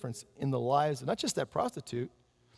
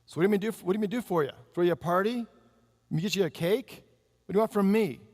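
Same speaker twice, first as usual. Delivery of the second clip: sharp, louder mock snap; nasty retort; 4 semitones higher, 3 dB louder than usual. Friend sneering at the birthday woman, nasty tone. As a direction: throw the question back at her with scorn.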